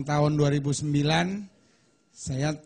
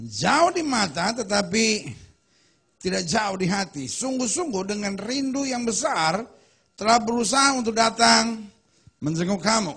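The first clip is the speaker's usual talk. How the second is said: higher, louder preaching read; scripture reading; 7 semitones higher, 5 dB louder than usual. Acted. Preacher reading First Thessalonians aloud, raised and proclaiming. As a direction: proclaim the verse to the congregation.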